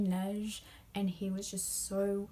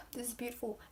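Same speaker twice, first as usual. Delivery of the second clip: soft, awed, higher breath; hushed awe; 4 semitones higher, 7 dB quieter, faster than usual. Retold or imitated. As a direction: whisper in wonder. After sigh, awed reaction.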